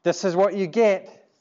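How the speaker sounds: mild jeer, slightly lifted; lightly mock him as onlookers would. Onlookers at the cross mocking him, mildly jeering. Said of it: "they're mocking him".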